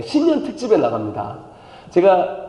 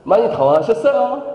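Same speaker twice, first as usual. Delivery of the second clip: phone scammer; 2 semitones higher than usual. Pretend. Pastor mimicking a Joseonjok phone scammer to get a laugh. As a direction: play the voice-phishing caller. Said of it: "다 조선족이래요".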